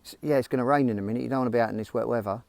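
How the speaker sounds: soft, quick voice in the head; lightly voiced nag, murmured fast; nagging inner voice. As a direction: talk them out of it, quietly and quickly. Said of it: "the voice says to me".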